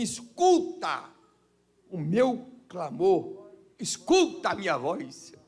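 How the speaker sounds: slow, drawn-out plea; pleading psalmist. Retold or imitated. Psalmist begging God to hear his cry, slow. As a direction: beg to be heard. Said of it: "Ele vai dizer assim".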